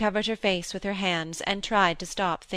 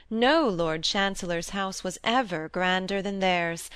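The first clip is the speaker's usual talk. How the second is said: usual speaking voice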